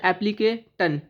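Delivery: एप्लीकेटन with a t sound at the end, ap-li-ke-tan; mock the mistake एप्लीकेटन, ending -tan; wrong pronunciation. Shown as a demonstration. Teacher shows students the mistaken ending tan. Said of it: "टन नहीं होता है".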